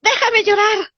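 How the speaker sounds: high, wailing sulky push-away; whiny self-pitying victim. Pretend. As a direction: shoo the helper off while wallowing. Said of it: "Y tú le dices".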